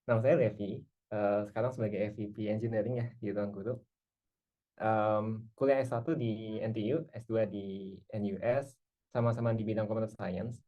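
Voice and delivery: relaxed, friendly self-introduction. Shown as a demonstration. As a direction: introduce yourself casually, not stiff. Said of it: "Yang agak lebih ramah lah".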